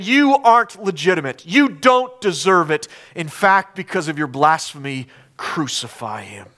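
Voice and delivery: acted accusation from the pulpit; accusing. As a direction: pass judgment firmly. Accusers judging Jesus.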